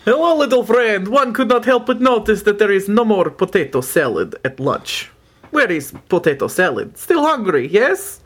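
lightly voiced polite creature asking for food; a hint of a formal, hungry beast; Frosty voice. Player voices Frosty character.

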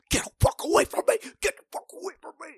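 high, fast mock panic, voice cracking up; half-joking scream to get the kid away; frantic high yell of a grown man fleeing; panicked yelling. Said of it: "and he's like".

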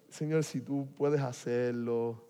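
slow doubtful prayer. Shown as a demonstration. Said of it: "la oración más raquítica".

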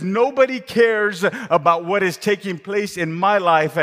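bitter conclusion. Acted. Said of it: "jumps to this own conclusion and says".

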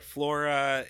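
"Flora" sounded out as a practice word; sounding it out. Shown as a demonstration. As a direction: sound out "Flora" toward the local Florida. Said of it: "I sound it out".

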